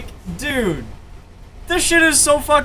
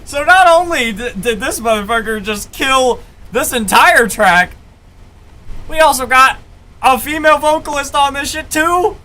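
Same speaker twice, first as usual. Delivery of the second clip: excited rant; 3 semitones higher, 3 dB louder than usual. Real, not acted. Excited rant about the track.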